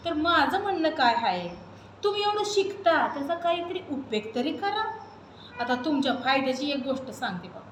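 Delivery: put-on a lively girl from the village speaking to the city crowd; naive village girl. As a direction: play a naive village girl talking back to the audience. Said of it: "एक अल्लड सुमी".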